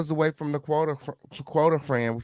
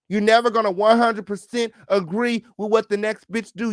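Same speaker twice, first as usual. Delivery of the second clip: high, loud, heated telling-off; furious rant; 6 semitones higher, 3 dB louder than usual. Real, not acted. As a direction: tear into the commenter, voice high and loud. Furious rant at a chat commenter.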